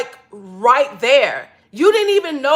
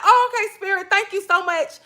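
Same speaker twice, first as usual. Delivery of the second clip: laughing thanks; 6 semitones higher than usual. Retold or imitated. Laughing thanks at found money.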